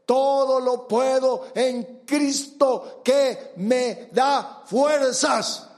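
slow, rising into a shout; fervent proclamation. Real, not acted. Preacher proclaims the verse to the congregation, slow and rising to a shout. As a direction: proclaim it with full force.

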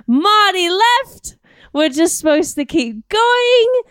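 slow put-on mom voice; impression of cooking mom. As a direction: stretch the words as a mock cooking-show mom. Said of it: "an impression of your mom cooking".

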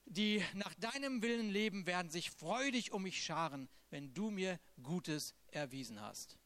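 impassioned reading of a lament; psalm reading. Acted. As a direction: pour the psalm out like a plea. Reads Psalm 142 aloud.

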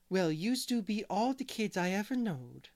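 shaky attempt at French-Canadian accent, high and loud; badly faked French accent. Boy imitates hired girl Mary Joe, in French accent. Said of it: "he's talking in a French accent here".

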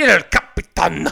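"Capitan" belted in exaggerated Italian; mock Italian accent. Teasing co-host about the theater's name, mock Italian. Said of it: "the speaker doing an Italian accent".

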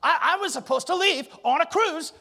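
rising, mock-whiny pleas; half-hearted whiny questions; whiny complainer. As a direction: sound like a fretting churchgoer. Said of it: "the only question you can come up with is".

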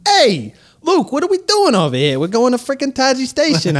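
high, loud, fast salesman pitch; used car salesman. Retold or imitated. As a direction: sell it like a pushy car dealer. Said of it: "Imagine C three P O as a used car salesman".

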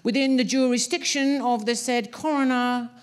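droning official monotone. A narrator's reading. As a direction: read it like a bored court clerk. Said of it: "as the man droned on".

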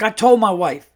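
mock-emphatic brash storyteller; Earl. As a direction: imitate a brash guy sounding off about his wife. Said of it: "like, a very brash uncle".

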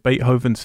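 Beethoven with a London accent; London pronunciation. Real, not acted. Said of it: "being a little bit London".

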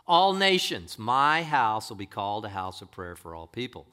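ringing pulpit proclamation; declaimed scripture. Acted. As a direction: proclaim it to the congregation.

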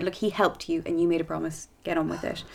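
Irish dad. Acted. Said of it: "he does sound like a very Irish dad".

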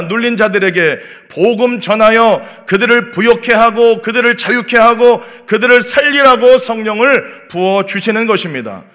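ordinary talk

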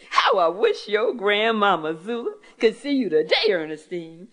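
teary, half-laughing aunt; aunt moved to tears at the sight of her niece; tearful. Acted. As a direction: speak through happy tears. Aunt laughed until tears flowed.

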